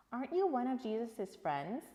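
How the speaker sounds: put-on a curious girl, rising and bright; young girl asking. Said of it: "a young girl asked".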